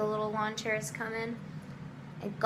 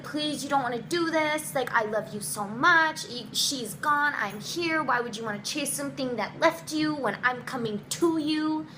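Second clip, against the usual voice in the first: higher-pitched imitated begging; mock heartbroken appeal, no sobs; retold tearful pleading; 5 semitones higher than usual. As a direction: plead with a touch of desperation. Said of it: "I was just crying. I was so sad".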